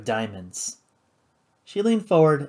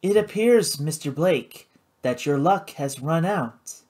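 lightly voiced cool hostess; 3 semitones higher than usual. Karina to Paladin, cool and poised.

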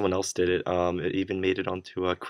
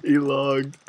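laughing; 7 semitones higher, 5 dB louder, slower than usual. Real, not acted. Laughing at troll result.

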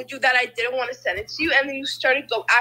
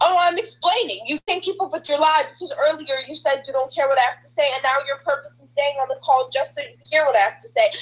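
heated, insistent explaining; real agitated rant; tantrum-like arguing; 3 dB louder than usual. Real, not acted. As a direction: argue back in a worked-up rush. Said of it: "throwing such a tantrum".

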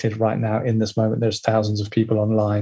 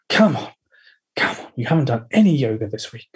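slave driver voice. Retold or imitated. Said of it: "the slave driver".

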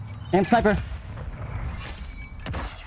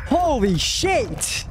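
slow, drawn-out amazed; stunned disbelief; much slower than usual. Real, not acted. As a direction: let it sink in slowly. Stunned after winning.

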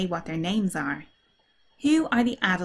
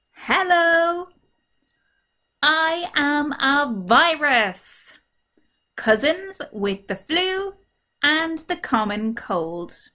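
high, slow, cheery virus character; friendly virus voice; 7 semitones higher, 3 dB louder, slower than usual. Acted. Virus greeting the children, high and slow. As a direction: play a chatty little virus saying hello. Virus introduces itself in first person.

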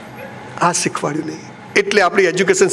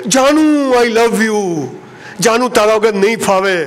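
crazed lover calling out; slower than usual. Retold or imitated. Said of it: "ગાડો રાડો પાડે".

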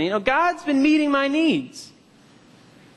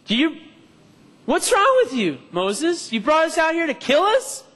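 raised, accusing voice at Moses; complaining Israelites; 5 semitones higher than usual. Retold or imitated. Israelites accusing Moses, raised angry complaint. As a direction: demand why he led them out to die. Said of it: "complain, saying".

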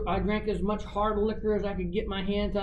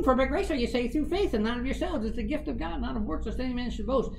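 higher quoted voice; heard voice; 8 semitones higher, faster than usual. Retold or imitated. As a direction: chant the verse up high. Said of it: "and the ring goes".

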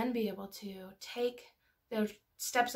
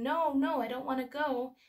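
mildly raised, louder imitation of yelling; mock child's yell; 4 semitones higher, 4 dB louder than usual. Mother retelling her scared three-year-old's protest, mock yell. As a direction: imitate a protesting child, only half yelled. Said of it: "But you just yelling".

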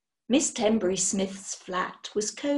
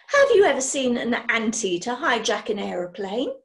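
louder, eager questioning lady; brisk witch; 5 dB louder than usual. Acted. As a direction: quiz him briskly.

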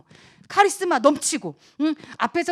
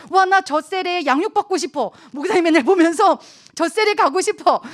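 louder, higher, eager exclamation; eager wish; 5 semitones higher, 6 dB louder than usual. Acted. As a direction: gush like an eager newcomer. Voices eager would-be members.

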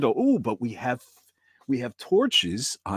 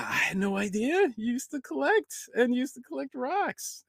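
ordinary delivery

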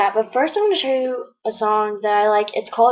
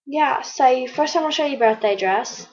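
put-on British accent; 3 semitones higher than usual. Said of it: "Now I can't stop talking in British accent".

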